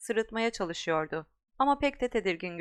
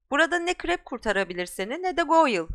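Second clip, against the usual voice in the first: shout; 5 semitones higher, 4 dB louder than usual. Acted. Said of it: "diye bağırdı".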